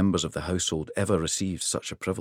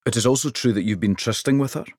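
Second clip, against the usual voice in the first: louder, quick sly question; king teasing his housecarl, louder and quick; 4 semitones higher, 4 dB louder, faster than usual. Acted. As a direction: needle him with a knowing grin.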